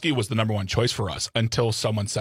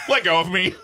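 annoyed dog voice; 6 semitones higher, 5 dB louder than usual. Retold or imitated. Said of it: "she'll go".

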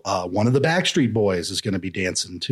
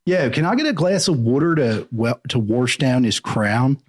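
put-on Philly accent; 3 semitones higher than usual. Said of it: "It's a weird accent in Philly. I can't really do it".

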